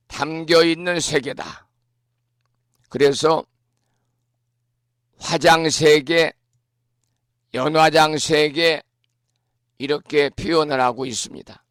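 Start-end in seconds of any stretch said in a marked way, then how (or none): none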